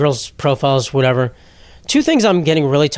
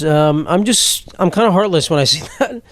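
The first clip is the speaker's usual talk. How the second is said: talking through hiccups; hiccuping mid-sentence. Real, not acted. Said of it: "sorry, I have the hiccups".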